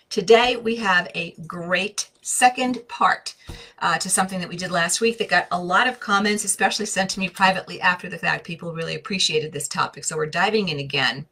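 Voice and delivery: talking while chewing gum. Real, not acted. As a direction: speak around a wad of gum. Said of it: "I have gum in my mouth".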